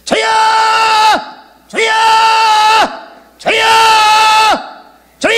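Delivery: long shouted calls with pauses between; repeated prayer cries. Shown as a demonstration. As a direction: cry out to stay awake at the wheel. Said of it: "주여를 백 번씩 합니다".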